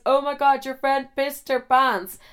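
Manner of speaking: put-on Amsterdam accent, high and drawn out; Amsterdam man. Amsterdam guy tells girls about their friend, imitated high accent. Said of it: "he was from, um, Amsterdam".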